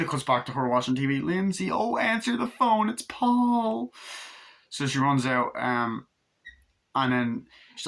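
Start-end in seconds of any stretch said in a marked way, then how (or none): 1.2-3.9 much higher urgent call; teen girl calling the kid, very high. Retold or imitated. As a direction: shout for the kid to get the phone. Annie calling from outside.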